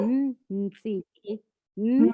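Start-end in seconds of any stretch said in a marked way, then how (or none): 0.5-1.4 Nsiki said slowly with the tongue lifted to the palate; name demo. Shown as a demonstration. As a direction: model the name Nsiki for her. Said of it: "Lift your tongue".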